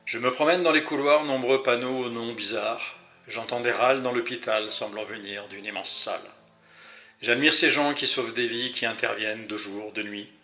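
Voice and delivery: measured, rhythmic poetry reading; poem recital. Acted. Sharing a patient's hospital poem with podcast listeners, rhythmic poem recital. Reads Norbert's poem aloud.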